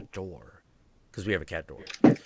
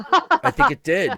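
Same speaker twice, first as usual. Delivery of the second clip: much higher, louder squeaky repeat; high mock repeat; 13 semitones higher, 7 dB louder than usual. Repeating the joke answer to friends in a high squeak.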